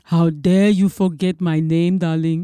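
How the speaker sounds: haughty diva voice; snooty poodle voice. Pretend. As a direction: play an offended glamorous star. Impersonating Iman, diva voice.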